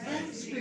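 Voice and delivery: वेडनेसडे as wenz-day, d silent; correct pronunciation. Shown as a demonstration. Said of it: "क्या होगा इसका pronunciation". (सही उच्चारण, वेन्ज़डे)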